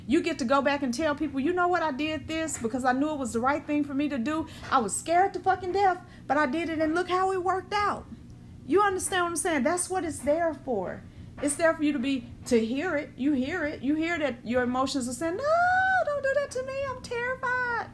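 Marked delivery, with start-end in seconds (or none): 1.4-8.0 proud retelling. Retold or imitated. 15.4-17.9 very high, squeaky terrified plea; hammed-up terrified little voice; mock terror. Voicing terrified emotions.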